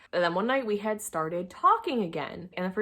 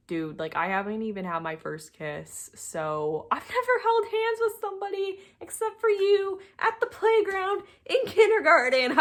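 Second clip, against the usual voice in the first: higher, laughing mock-innocent protest; 13 semitones higher than usual. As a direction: giggle through your innocence.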